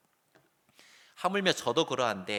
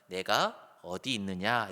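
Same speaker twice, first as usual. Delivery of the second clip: slow gentle question; 4 semitones lower, slower than usual. Shown as a demonstration. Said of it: "뭐라고 물어보시냐면".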